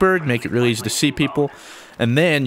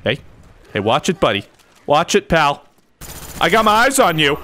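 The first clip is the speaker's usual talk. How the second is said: mock tough guy; 3 semitones higher, 3 dB louder than usual. Taunting an enemy player.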